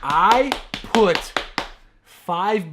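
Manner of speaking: loud, punched word by word; emphatic loud retort. Real, not acted. Co-host insists on the bleeps he added, loud emphatic retort. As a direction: fire back loudly, pausing after each word. Hammering back the cussing accusation.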